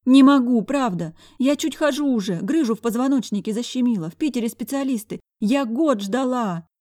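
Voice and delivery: high-pitched pleading with a touch of tears; tearful whimper. A narrator's reading. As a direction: plead as if close to sobbing. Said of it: "всхлипнула чёртова поганка".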